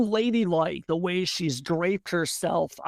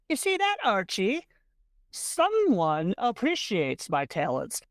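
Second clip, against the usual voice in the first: showing off. Acted. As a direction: crow to your husband about being appreciated. Delighted wife boasting to her husband.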